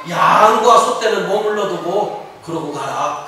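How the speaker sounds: slow, drawn-out royal condition; Pharaoh. Acted. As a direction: stretch the opening word as a king setting terms. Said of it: "그 대신에 뭐라고요?". (왕이 조건을 걸듯 느리게 늘여서)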